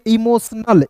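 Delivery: "इमोशनल" said as imo-snal; joined-up reading. Shown as a demonstration. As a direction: read "इमोशनल" as one word from its parts. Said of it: "इसे एक साथ क्या पढ़ेंगे".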